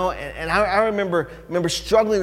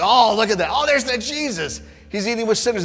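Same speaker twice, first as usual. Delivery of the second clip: gossiping Pharisees; 8 semitones higher, 5 dB louder than usual. Retold or imitated.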